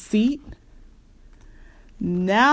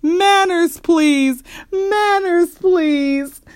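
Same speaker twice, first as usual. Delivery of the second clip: high, raised-voice shout; 10 semitones higher, 4 dB louder, much slower than usual. A narrator's reading. Papa calling the squabbling family to order, shouting. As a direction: call it out high over the commotion. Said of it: "Papa stood in the middle of the room shouting".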